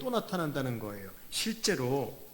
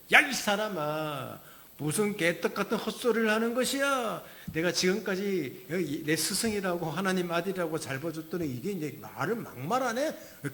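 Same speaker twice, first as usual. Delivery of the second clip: rebuking Peter; 3 semitones higher than usual. Retold or imitated. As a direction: scold him like an angry friend. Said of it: "책망했다는 거예요". (베드로가 예수께 멱살 잡고 따지듯 거칠게)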